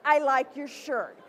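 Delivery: slow, disgusted fake compliment; slow sarcastic compliment through clenched distaste; repulsed. Shown as a demonstration. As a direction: say it like you hate the shirt. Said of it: "you're repulsed by the shirt they've chosen".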